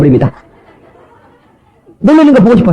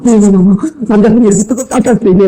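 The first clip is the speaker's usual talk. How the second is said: imitated breathless young-woman wonder; mildly startled, marvelling girl; flustered surprise; 2 semitones higher, faster than usual. Young woman whose hand is held, flustered amazement. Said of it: "막 놀랍니다".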